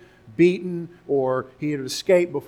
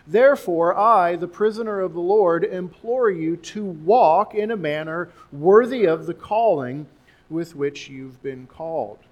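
scripture reading; 4 dB louder than usual. Acted. Reading Ephesians aloud.

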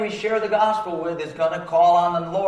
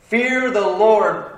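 FEAR drawn out slow and raised; slow emphatic exhortation; 4 semitones higher, 4 dB louder, much slower than usual. Real, not acted. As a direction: lean hard on "Fear", stretching each word. Preacher exhorting the congregation.

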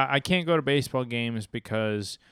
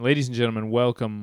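announcer call; 8 dB louder, faster than usual. Acted. Host's announcer opener.

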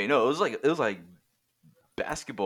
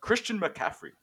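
Spanish commentator; 8 dB louder than usual. Retold or imitated. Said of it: "They'll be like".

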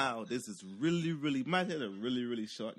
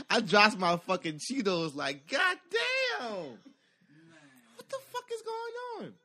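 very high, laughing disbelief; high shocked squeal; 10 semitones higher, 3 dB louder, slower than usual. Retold or imitated. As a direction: squeal it like you can't believe it. Panicking at the fight.

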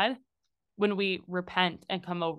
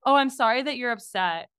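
fake apology; 3 semitones higher, 5 dB louder than usual. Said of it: "classic example when someone's like".

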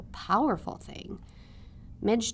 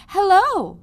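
much higher and louder, calling out merrily; merry call; 10 semitones higher, 12 dB louder than usual. A narrator's reading. Princess calling merrily to Midge from her horse. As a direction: call out a cheerful hello across the field. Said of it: "called out merrily".

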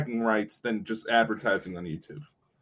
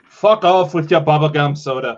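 loud, playful fake outrage; mock outraged shout; 4 semitones higher, 12 dB louder than usual. Real, not acted. Mock outrage at friend's drink.

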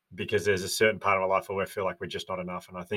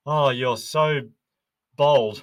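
higher, louder and drawn out on bold; dad answering his daughter's dress, higher and louder, stressing bold; enthusiastic praise; 4 semitones higher, 8 dB louder, much slower than usual. Retold or imitated. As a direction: gush over the word bold like a proud dad. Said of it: "And I said".

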